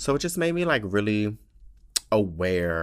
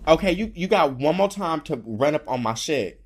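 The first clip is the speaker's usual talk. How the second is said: high sassy self-scolding; 8 semitones higher, 5 dB louder than usual. Real, not acted. Joking scolding of own tears.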